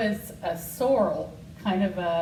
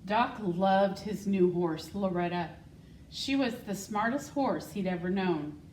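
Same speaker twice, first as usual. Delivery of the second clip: put-on reading a picture book to children; story reading; 2 semitones higher than usual. School secretary reading Wonder Horse to the class, storytelling voice. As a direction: read it warmly and clearly to young listeners.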